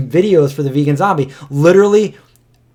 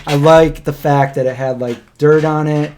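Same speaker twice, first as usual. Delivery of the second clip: mock customer. Friend acting the restaurant customer, lightly voiced and chirpy. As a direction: play the chirpy customer praising dirty pizza.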